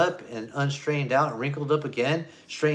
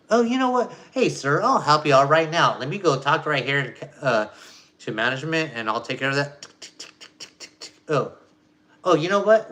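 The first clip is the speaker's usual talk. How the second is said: overeager bank agent; 4 dB louder than usual. Retold or imitated. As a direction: play a phony helpful phone rep brushing the caller off.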